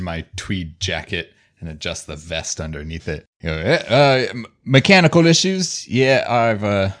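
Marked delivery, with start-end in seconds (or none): 3.6-6.9 character voice. Acted. Character reply, pitched up.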